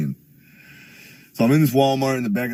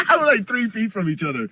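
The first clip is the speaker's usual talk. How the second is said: laughing, higher, at how close the cops were; 10 semitones higher than usual. Real, not acted. Streamer retelling the cop standoff, laughing. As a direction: break into a laugh on the repeat.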